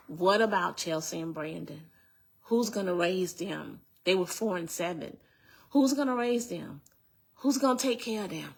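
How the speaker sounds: retold begging. Woman retells begging her partner to think of the children, pleading. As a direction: start contained, then press the plea upward. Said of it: "I'm begging him".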